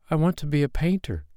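put-on high child's voice without extra volume; high, earnest young voice; crying out eagerly. A narrator's reading. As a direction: declare it like an eager boy. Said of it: "cried Carl".

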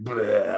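short fake retch; mimed retching noise; mock retching noise. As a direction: imitate a quick vomit sound. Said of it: "was like".

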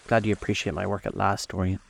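cool, understated reserve; restrained coldness; coldly. Acted. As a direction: say it coldly, at an even pitch.

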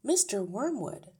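a touch of impatient warning; losing patience. A narrator's reading. Miss Honey addresses the rude father, losing patience. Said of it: "began to lose patience".

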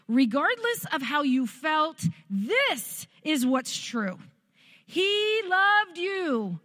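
slow, emphatic declaration; voice of the Lord. Retold or imitated. The Lord reassuring a wounded daughter, slow and emphatic. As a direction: declare it firmly, stretching the key words. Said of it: "the Lord said".

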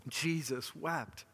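"Jesus wept" drawn out slowly, soft; quiet, slow reading of "Jesus wept"; slow and weighty. Shown as a demonstration. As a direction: let "Jesus wept" land slowly, word by word. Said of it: "Two words".

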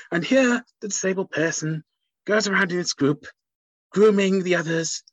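a hint of a hushed wildlife narrator; lightly voiced nature documentary host. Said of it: "deserve to be in a nature documentary".

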